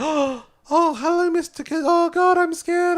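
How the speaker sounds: small, hesitant, frightened, timid little creature voice. Describing a character who comes to life from tears, doing an impression of his voice. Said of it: "that's a pretty good impression of the tone of his voice".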